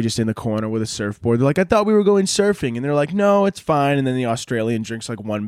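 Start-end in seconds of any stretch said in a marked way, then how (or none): 1.6-2.8 Aussie voice. Retold or imitated. Australian voiced. 3.1-4.0 high mock voice. Reply voiced.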